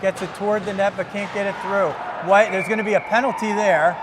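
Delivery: running hockey call, evenly pitched; live play-by-play. Real, not acted. Commentator calls the final faceoff for viewers, running play-by-play. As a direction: follow the puck in one continuous run.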